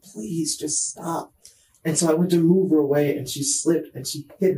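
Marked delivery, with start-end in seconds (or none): 0.0-1.3 quiet plea. Retold or imitated. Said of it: "And I'm like".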